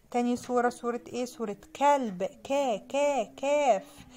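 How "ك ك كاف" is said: ك said twice alone, then the letter name كاف; separate, deliberate ك sounds leading into كاف; sounding out first letter. Shown as a demonstration. Teacher matching the dog picture to its letter, sounding out ك. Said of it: "هوصلها بحرف الكاف".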